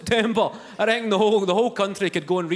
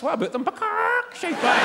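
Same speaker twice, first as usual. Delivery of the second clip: higher, curt put-down; blunt insult; 10 semitones higher than usual. Pretend. Imagined Salmond retorts at the debate, blunt. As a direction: spit the insult, dismissive.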